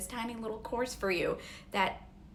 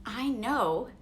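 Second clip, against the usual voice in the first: teary. Real, not acted. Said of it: "Sorry, I am teary".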